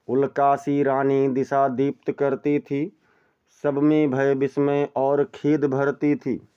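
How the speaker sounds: slow, measured verse reading; poem recitation. Shown as a demonstration. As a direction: recite it like classical poetry. (धीमा काव्य पाठ)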